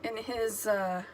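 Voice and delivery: high, hurried fretting; distraught worry. Retold or imitated. Worrying aloud during the movie, high and fretful. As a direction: fret as if about to cry. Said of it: "And I was like".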